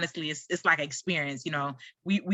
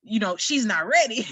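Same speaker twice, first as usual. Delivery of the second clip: laughing mock panic. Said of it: "I'm, like, freaking out".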